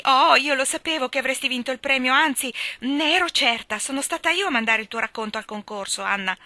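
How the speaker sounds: put-on high, bright triumphant girlish voice; gushing with pride at her secret; excited Diana. Diana claps her hands. (ragazza entusiasta e orgogliosa)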